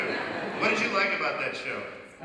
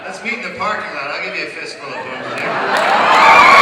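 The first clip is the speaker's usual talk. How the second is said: mock tough threat; 13 dB louder than usual. Challenging a fan to meet in the parking lot, mock loud threat. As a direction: bellow it like a movie tough guy, but laughing.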